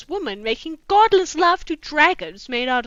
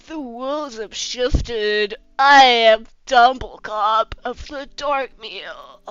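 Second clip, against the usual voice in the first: grand wizard; 4 dB louder, slower than usual. Acted. Ancient wizard proclaims.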